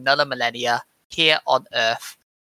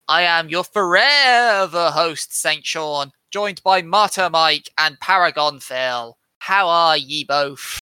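preacher voice; slower than usual. Pretend. Mock saintly host introduction.

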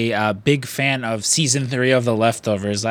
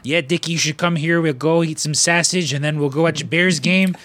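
hammed-up Midwestern accent, pitched up; 4 semitones higher than usual. Speaker imitating Midwesterners he has met, Midwestern accent. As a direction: imitate a Chicago Bears fan with a Midwestern accent. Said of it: "like, a Midwestern accent".

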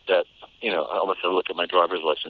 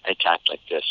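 Boston accent; 2 semitones lower than usual. Shown as a demonstration. Actor shows how they talked as a child, Boston accent. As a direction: talk like a little Kennedy, in Boston vowels. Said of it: "I said like a little Kennedy".

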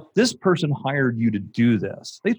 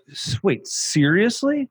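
incredulous; 3 semitones higher than usual. Retold or imitated. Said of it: "I would be like".

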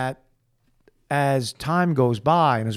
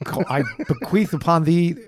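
archaic decree; 3 semitones higher, slower than usual. Pretend. Adam naming things, archaic.

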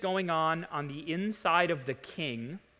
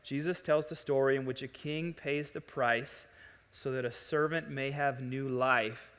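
ordinary talk

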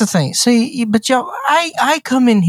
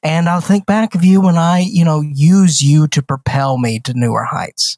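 mock grandiose villain. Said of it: "can't even get through that in a straight face".

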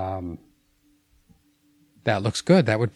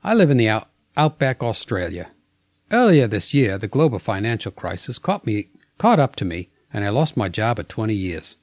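a lightly put-on, slowish Australian accent; reading a listener letter in a hammed-up Australian accent, not a good one. Co-host asked for the letter read in a mild Australian accent. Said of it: "I think you should read it in an Australian accent".

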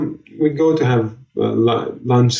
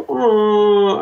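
disappointed oh; 9 semitones higher than usual. Retold or imitated. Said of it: "she's like".

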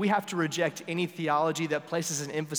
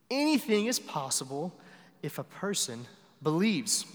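emphatic Jesus quote; 2 semitones higher, 3 dB louder than usual. Retold or imitated. Quoting Jesus to the father.

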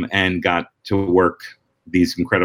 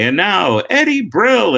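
high, drawn-out host introduction; talk show announcer; 11 semitones higher, 3 dB louder, slower than usual. Retold or imitated. Letterman bringing the comedian on, announcer voice. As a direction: stretch out the guest's name like a TV host. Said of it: "Letterman say".

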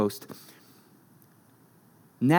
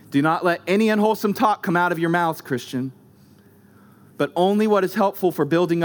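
verse read briskly; quick first reading. Shown as a demonstration. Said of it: "Unwholesome, interesting word".

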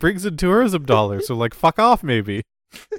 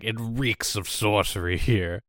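lightly voiced Charles Dance; 6 semitones lower, 5 dB quieter, slower than usual. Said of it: "he's just like".

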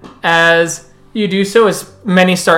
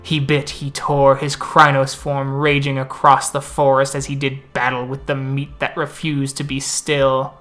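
epic fantasy narrator. Acted. NPC tells a legend at the moot.

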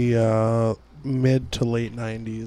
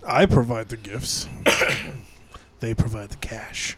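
sultry Santa voice; 2 semitones lower, 4 dB quieter than usual. Pretend. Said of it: "such a sultry voice today".

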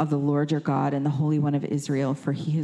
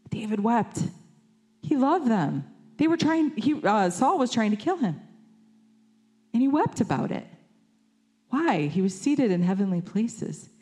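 pitched up high with mounting passion; rising fervour; 6 semitones higher than usual. Real, not acted. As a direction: preach it up, stirred and heightened.

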